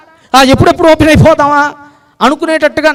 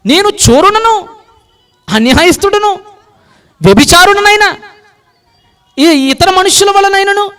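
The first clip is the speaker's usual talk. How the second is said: boastful Pharisee; 7 semitones higher than usual. Acted. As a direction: pray like a man sure he's better than others.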